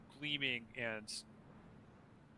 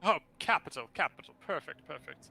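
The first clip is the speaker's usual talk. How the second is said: flaming skull voice; 3 semitones higher, 3 dB louder than usual. Acted. Skull pleased, posh exclamation.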